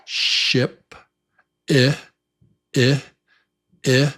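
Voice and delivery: ship and I with a short, rounded-mouth I. Shown as a demonstration. Teacher drills the short I of ship. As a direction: clip the I quick and short. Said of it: "the short I, as in ship".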